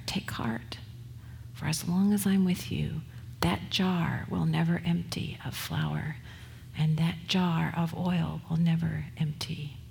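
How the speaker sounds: whispered, lightly reassuring promise; soft whisper. Acted. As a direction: hush a comforting promise. Elijah promises the widow comfort.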